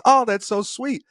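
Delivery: high-pitched sweet gushing; mock girlfriend. Girlfriend receives birthday chocolates in reenactment, high mock-sweet voice. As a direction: put on a high girlish thank-you. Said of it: "And she goes".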